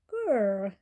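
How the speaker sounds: loud rumbling growl; lion growl. A narrator's reading. Lion growling at the trapped flea. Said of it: "said the lion".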